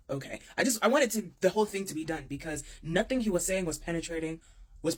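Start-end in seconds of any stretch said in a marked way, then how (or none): 0.1-0.4 soft, low, resigned okay; small, quiet acquiescence; subdued reply. Retold or imitated. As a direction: give in quietly, retelling it. Retold meek reply to dad's lecture.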